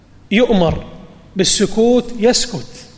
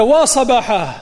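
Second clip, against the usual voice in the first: higher, mildly imitated alarm call; 4 semitones higher than usual. Prophet calls from atop mount Safa, mild calling out. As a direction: lift the voice in a restrained retold cry. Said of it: "يصيح من على جبل الصفا".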